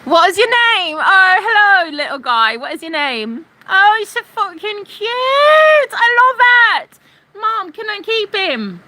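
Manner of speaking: put-on high, loud baby-talk coo; mock cooing. Cooing at the troll as if he were a cute pet, high and squealy. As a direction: gush over him like a new puppy.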